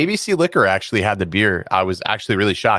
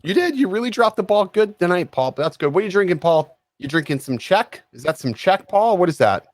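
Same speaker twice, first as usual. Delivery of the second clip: much higher, singsong ribbing of Paul; mock teasing; 9 semitones higher than usual. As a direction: needle the producer playfully. Teasing producer Paul after scolding.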